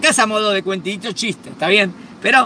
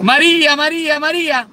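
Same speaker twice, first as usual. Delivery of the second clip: shouting her name again, more urgent; calling louder; 6 semitones higher, 3 dB louder than usual. Retold or imitated. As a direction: keep calling, getting closer. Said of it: "acercate por el pasillo llamándola".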